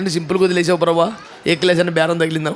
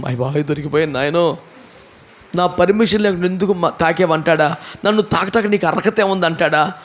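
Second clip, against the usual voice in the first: frightened woman. Retold or imitated. Woman fears being caught.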